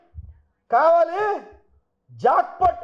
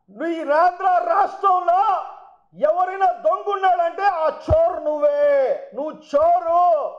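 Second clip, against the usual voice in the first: angry accusing shout; 3 semitones higher than usual. Real, not acted. Accusing rival MLA at press meet.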